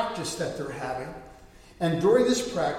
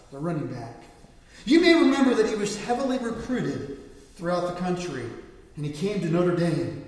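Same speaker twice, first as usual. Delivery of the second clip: announcer; 4 dB louder than usual. Retold or imitated. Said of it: "the announcer makes this comment".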